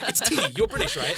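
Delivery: high, loud, laughing voice of the helpful staffer; mock cheerful helper. Staffer giving the Englishman tea, high laughing mock voice. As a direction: play her as sweetly obvious, laughing.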